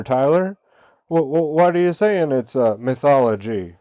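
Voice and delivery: lightly voiced skeptic brushing off questions; mock truther guy. Talk show host voicing a truther who won't look further, mock whiny. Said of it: "this is the truther guy".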